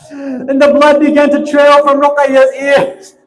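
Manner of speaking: crying as the story is told; tearful. Real, not acted. Preacher to mourners, choking up with tears. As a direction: voice breaking into weeping over the tale. Majlis narration of martyrdom, weeping.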